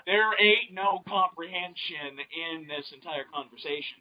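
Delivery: mock Southern gentleman accent. Podcaster joining the bad-grammar joke as a Southern gentleman. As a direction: put on a genteel Southern voice. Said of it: "switch from my southern gentleman".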